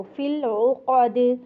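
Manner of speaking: फ़िल उक़द with a gentle ain, not a hard glottal; soft ain. Shown as a demonstration. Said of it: "आइन को नरमी के साथ".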